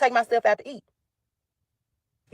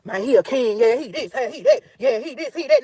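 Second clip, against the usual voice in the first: mocking fans; 3 semitones higher than usual. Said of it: "this the nigga that y'all".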